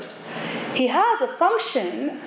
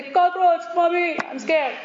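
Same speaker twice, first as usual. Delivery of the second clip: put-on higher-pitched child calling to mommy; scared child; 5 semitones higher, slower than usual. Child tells mommy about a cockroach, scared little voice. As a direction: play a little one frightened by a bug. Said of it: "But a child can look at it and say".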